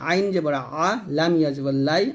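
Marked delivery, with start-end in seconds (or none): 0.1-0.9 আ squeezed from the throat; pressed ain. Shown as a demonstration. Teacher showing pupils how to press ain, throat squeezed. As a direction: say আইন জবর আ with pressure on the আ. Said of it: "চাপ দিয়ে".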